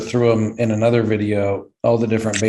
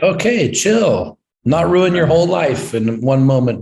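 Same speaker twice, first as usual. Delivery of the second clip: mock calming; 5 semitones higher than usual. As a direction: talk yourself down gently. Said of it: "take one pill and be like".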